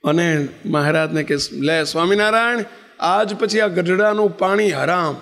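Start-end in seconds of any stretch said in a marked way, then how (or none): 1.5-5.2 angry renunciation. Retold or imitated. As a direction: swear off the place for good. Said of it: "એમ કહીને કંઠી".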